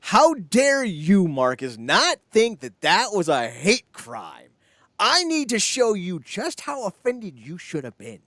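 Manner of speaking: slow, hammed-up indignation; mock outrage. Scene: mocking Marcus for not being offended, hammed-up indignation. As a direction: pretend to be scandalized, slowly.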